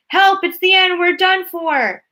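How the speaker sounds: very high, loud cries, last words slow; terrified shout. A narrator's reading. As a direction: scream for help in terror. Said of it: "Grandpa Joe shouted".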